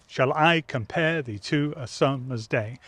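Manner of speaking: slow, each "dum" of "Shall I compare" leaned on; iambic reading. Shown as a demonstration. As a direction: read it slowly with the iambic beat. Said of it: "five iambs in that line".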